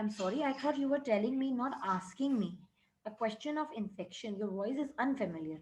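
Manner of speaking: slow, deliberate reading of the English text; measured classroom read-aloud; story reading. A narrator's reading. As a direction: read each word out carefully for the class. Reads English story lines aloud.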